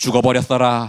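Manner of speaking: Jeolla regional accent. Speaker compares Korean regional dialects and gives the Jeolla example in Jeolla dialect. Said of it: "전라도".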